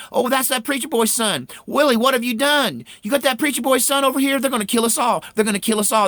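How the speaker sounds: high, loud panicked wailing; a mother sure they will all be killed; terrified mother. Retold or imitated. Willie's mother panicking over the preacher's boy, high frantic wail. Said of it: "she said".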